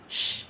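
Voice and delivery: "sh" voiceless with lips pushed forward; rounded sh. Shown as a demonstration. Teacher models lip-rounded sh for learners. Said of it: "cong môi lên".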